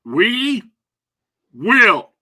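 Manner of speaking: high, drawn-out spooky farewell; ominous sign-off. Acted. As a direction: tease the return like a horror trailer. Dramatic show sign-off.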